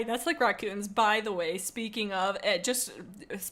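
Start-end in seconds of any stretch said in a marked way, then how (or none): none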